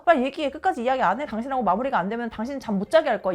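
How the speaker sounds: loud, insistent acted threat, speeding up; pushy demand. Retold husband dragging wife back to argue, pushy and loud. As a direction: badger impatiently, imitating a quarrelling husband. Acting husband refusing to end quarrel.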